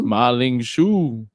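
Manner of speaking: "Ma Ling Shu" stretched very slowly; drawn-out foreign phrase. Shown as a demonstration. Podcaster repeating a Mandarin word for co-hosts, drawn out. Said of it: "start the show by yelling".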